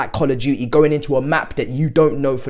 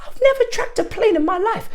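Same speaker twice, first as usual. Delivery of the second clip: much higher, laughing through the words. Real, not acted. Fan laughing at himself for tracking planes. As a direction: giggle it out in disbelief.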